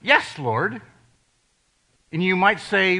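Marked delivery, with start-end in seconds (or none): 0.0-0.8 answering yes. Shown as a demonstration. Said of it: "is to say this".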